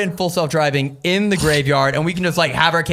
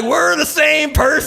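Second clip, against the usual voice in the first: amazed exclamation; 11 semitones higher, 4 dB louder, slower than usual. Retold or imitated.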